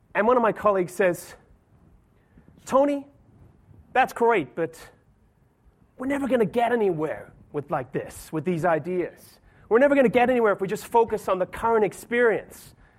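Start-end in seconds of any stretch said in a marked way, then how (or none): 2.6-12.7 put-on American accent, plain delivery. Quoting an American colleague's reply to his ideas, American accent. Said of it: "Sorry, that's my American accent".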